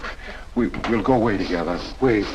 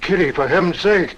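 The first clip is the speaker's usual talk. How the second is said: much higher and louder, stunned; shocked plea; 12 semitones higher, 5 dB louder than usual. Acted. The suitor, stunned by Kitty's cruelty, crying out high. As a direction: cry out in disbelief.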